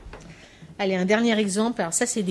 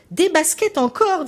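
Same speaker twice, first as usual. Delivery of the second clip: high and slow, drawn-out wonder; teacher's marvelling repeat; 8 semitones higher, slower than usual. Retold or imitated. Teacher echoing a child's word, high slow amazement. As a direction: stretch it like a teacher feigning amazement. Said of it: "dit la maîtresse".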